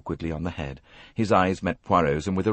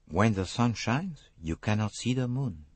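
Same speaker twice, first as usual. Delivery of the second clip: Hercule Poirot; 4 semitones higher, 4 dB quieter than usual. Acted. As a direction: speak cryptically in a French accent.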